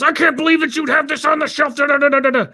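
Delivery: mock outraged customer; indignant ranting. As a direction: rant on, outraged.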